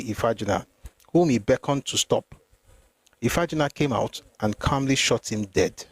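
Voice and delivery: measured, formal reading from a book; read-aloud narration. Acted. Reader recounting the night of the mutiny to listeners, read-aloud narration. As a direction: read the account out evenly, phrase by phrase.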